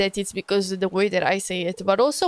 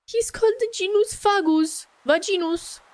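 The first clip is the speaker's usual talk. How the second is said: amused disbelief; 10 semitones higher than usual. Real, not acted. Cracking up over Latin name.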